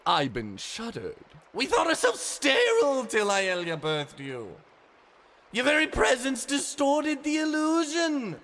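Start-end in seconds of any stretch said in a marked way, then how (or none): 1.5-8.4 a lightly voiced pained old man. Ivan explains, pained.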